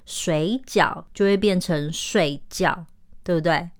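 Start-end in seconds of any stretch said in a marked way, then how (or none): 1.9-2.9 睡觉 with both syllables falling sharply; fourth tones. Shown as a demonstration. Teacher showing how wrong tones change the word, fourth tones. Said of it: "把这两个字变成四声".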